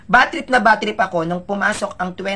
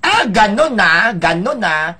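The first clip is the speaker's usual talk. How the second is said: challenged retort; 6 dB louder, slower than usual. Retold or imitated. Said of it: "Doon ako na-challenge".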